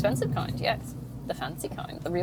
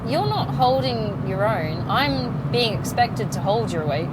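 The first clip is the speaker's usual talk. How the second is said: slow, firm and pointed, a touch louder; stern telling-off; 2 semitones higher, 5 dB louder, slower than usual. Retold or imitated. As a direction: lay it out to him word by word. Telling off boyfriend about money.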